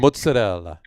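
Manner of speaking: "mozzarella" as moots-a-DELL-a; Italian-American pronunciation. Shown as a demonstration. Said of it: "properly, they're gonna look and you go".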